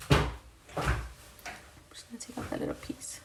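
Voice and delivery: soft whisper while concentrating. Real, not acted. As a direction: whisper it under your breath. Concentrating on fine makeup work.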